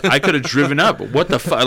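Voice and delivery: half-hearted mock outrage; mildly imitated angry mom. Mom scolding her son over text, mock angry. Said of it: "flipping the fuck out, pissed".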